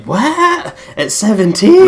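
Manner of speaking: high, loud incredulous "What?"; shocked disbelief. Retold or imitated. Players recalling their shock at a teen's natural death, incredulous. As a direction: act out your jaw-dropping disbelief. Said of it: "and then we were like".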